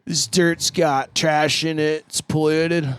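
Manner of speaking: slow, dopey scientist voice; deliberately slow mock scientist. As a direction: drag it out like a dim field scientist. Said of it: "if your scientist talks like that".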